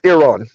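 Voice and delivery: Iran said ih-RAHN; corrected pronunciation. Shown as a demonstration. Passing on Earth's correction to listeners, Iran as ih-RAHN. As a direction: say "Iran" with a short first vowel and RAHN. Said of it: "Earth says it's pronounced".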